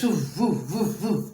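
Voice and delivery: low, soft repeated "woof"; imitated whoosh. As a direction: sound out the motion in low, soft pulses. Imitates seatbelt jolting to a stop.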